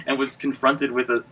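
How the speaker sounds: excited. Retold or imitated. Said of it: "And I said".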